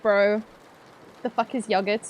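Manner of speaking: imitating a deadpan dad. Streamer imitating dad's puzzled reply, deadpan. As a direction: answer flatly, yogurt with a short o. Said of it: "deadpan look at me".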